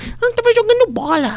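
put-on very high, slow, tiny childlike voice. Retelling their excuse to a woman asking what was happening, in a little voice. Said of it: "com essa vozinha".

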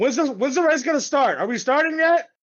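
very high, loud, fretful panic. Voicing Desmond staring at his scar before a race: panicking. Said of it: "panicking as he's staring at his scar".

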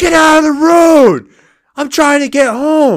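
very high, very loud shrill screech, "road" drawn out. Retelling what a woman honking at them said, imitating a woman yelling. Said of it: "you're yelling at me for this?".

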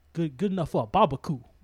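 mock Louisiana accent. On a podcast, after talk of extreme heat, in a Cajun accent. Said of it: "that's not a bad Cajun accent".

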